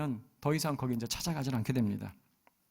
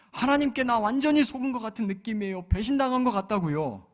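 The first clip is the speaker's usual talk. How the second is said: higher, louder aggrieved lament; 8 semitones higher, 6 dB louder than usual. Retold or imitated. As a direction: pour out hurt feelings. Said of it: "넋두리 하는 것처럼 들려요". (서운함을 쏟아내는 넋두리)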